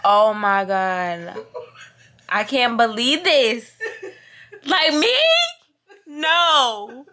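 loud high laugh-crying; overwhelmed. Real, not acted. Vlogger laugh-crying about her friend's post. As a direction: choke up with joy. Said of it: "dead ass crying".

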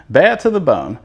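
tossing the tagline out with a grin; playful catchphrase. Real, not acted. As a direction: throw "Bad to the bone" out like a tagline. Repeats catchphrase after laughing.

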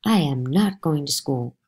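slow, defiant outburst; blurted. Acted. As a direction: blurt it out in protest. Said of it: "I blurted out".

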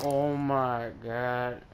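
slow, soft drawn-out oh my god; deflated disbelief. Real, not acted. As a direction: sigh it out, defeated.

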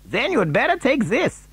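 high-pitched character voice; resigned Wonka. A narrator's reading. Wonka offering his top hat, high-pitched. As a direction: hand it over in a high voice.

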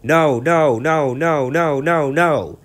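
high, loud cheeky refusal; trucks answering back. Acted. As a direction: defy the engine like naughty trucks. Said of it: "the trucks answered back".

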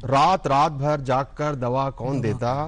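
measured verse, stepping down in pitch line by line; mushaira-style recital; poetry recitation. Acted. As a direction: recite the couplet with falling cadences. Poet recites verse about mother.

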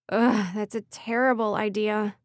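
slow, groaning self-reproach; moaning. Acted. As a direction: moan it in dismay. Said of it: "she moaned out loud".

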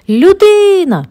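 high, loud squeal of panic; terrified ghostly squeal; ghost shrieking. A narrator's reading. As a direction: shriek like you've seen a human. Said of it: "заверещав Демі".

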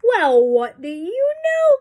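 high, loud, slow exclamation; astonished cry. A narrator's reading. Elephant realises the sneeze has gone, astonished cry. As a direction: exclaim it big, stretching the words. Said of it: "cried the elephant".

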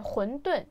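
混沌 as húndùn, unaspirated d; common mispronunciation. Shown as a demonstration. Showing how everyone says wonton, 混沌 as húndùn. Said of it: "間違ってる発音をしてるんですね".

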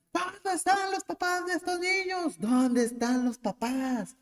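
high, calling out for the missing parents; retold shout. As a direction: yell across the beach for the parents. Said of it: "empezaron a gritar".

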